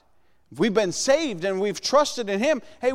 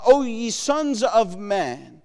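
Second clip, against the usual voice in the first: slow scripture read; slower than usual. Shown as a demonstration. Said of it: "He says, uh".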